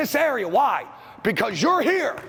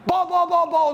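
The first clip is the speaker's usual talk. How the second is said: yelling for the ball; 8 semitones higher than usual. Shown as a demonstration. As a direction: shout "ball" over and over like a shooter wanting the pass. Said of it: "and start yelling".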